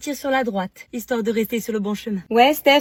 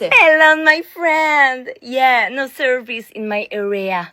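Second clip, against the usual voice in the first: English phone aside; 7 dB louder, much slower than usual. Acted. Switches to English addressing Elon.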